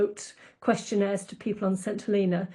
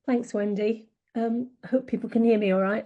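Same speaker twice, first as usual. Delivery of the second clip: speaking into an echoey room; echoey sound. Real, not acted. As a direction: echo like a big hall. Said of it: "I sound a bit echoey as well".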